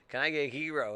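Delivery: "gyro" said as "YEE-roh"; Greek pronunciation. Retold or imitated. Friend orders at sub shop: "gyro" as "yee-roh". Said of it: "he's like".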